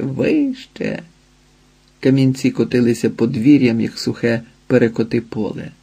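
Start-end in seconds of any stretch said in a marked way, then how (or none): 0.0-1.0 вище leaps much higher, soft, falling; a high eerie cry of вище; wind cry. A narrator's reading. Вітер кричить хвилям, високо. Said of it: "кричав хвилям".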